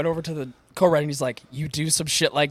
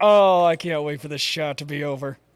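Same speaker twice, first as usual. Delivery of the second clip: put-on speaking through teeth, slower. Recounting a man's remark during a recorded shot, retelling talk through his teeth. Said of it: "talking through his teeth".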